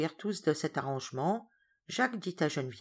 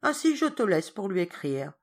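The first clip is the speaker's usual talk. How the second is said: louder, firm scolding; stern governess; 4 dB louder than usual. Acted. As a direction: put the boy in his place.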